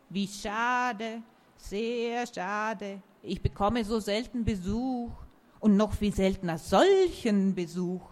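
put-on disappointed old tree; talking tree. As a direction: sigh it like a lonely oak. Oak voice in a story.

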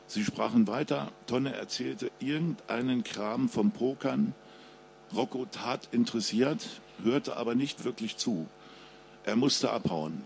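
ruhige Krimi-Lesestimme des Autors; Lesung. A narrator's reading. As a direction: spannend vorlesen, wie vor Publikum. Author reads his crime novel. (Autor liest seinen Krimi vor, ruhig und spannend)

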